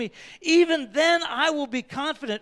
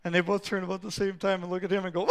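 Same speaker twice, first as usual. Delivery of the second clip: usual speaking voice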